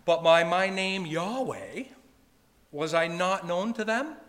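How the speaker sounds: verse read as a question, pitch lifted through "was I not known to them?". Shown as a demonstration. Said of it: "there's a question mark at the end".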